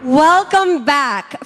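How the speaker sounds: slow, loud show opener; presenter's welcome. Real, not acted. Host welcoming the audience back, announcer style. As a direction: open the show with drawn-out words.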